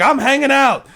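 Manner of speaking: high, breezy, light voice; casual Marine. Retold or imitated. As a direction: shrug it off over the intercom. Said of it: "he's just like".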